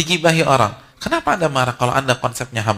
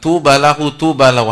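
proclaimed loud; 12 dB louder than usual. Acted. Preacher quoting the Prophet to the congregation, loud proclamation. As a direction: ring out "Tuba lahu" loudly and solemnly.

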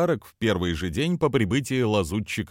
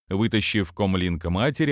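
normal talking voice

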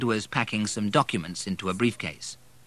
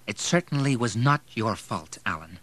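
firm; 3 semitones higher than usual. Acted. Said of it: "he said firmly".

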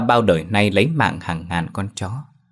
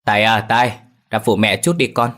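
calling a bit louder across the shop; 3 semitones higher, 3 dB louder than usual. Acted. Mother calls her son to help, raised calling voice. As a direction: call the son over from the next room. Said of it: "Quay qua bà lại kêu".

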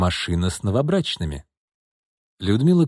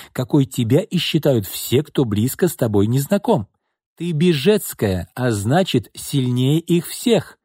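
put-on cool older sister; 3 semitones higher than usual. Sister coolly lectures sister.

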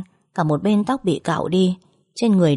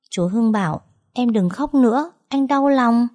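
giọng bé con ngây ngô; 6 semitones higher than usual. A narrator's reading. Bé nhắc lại lời chú Hưng.

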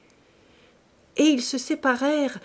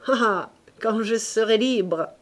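exalté; 2 semitones higher, 6 dB louder than usual. Acted. Claude s'exalte sur sa passion.

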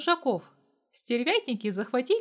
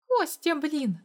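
higher, sharp exasperated blurt; 5 semitones higher, slower than usual. A narrator's reading. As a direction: fire it out in annoyance. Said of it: "выпалила она".

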